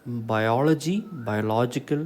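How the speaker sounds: bi-OL-ogy, then bio-LO-gical for biology, biological; shifting stress. Shown as a demonstration. Teacher recapping word pairs, stress shifting in biology, biological. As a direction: move the weight from OL in biology to LO in biological. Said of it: "The stress falls on".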